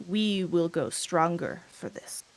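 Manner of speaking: firm dragon voice. Acted. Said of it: "The firm voice of the dragon".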